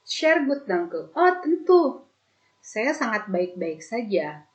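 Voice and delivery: high bright "Oh, tentu"; delighted reply. Acted. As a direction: answer happily.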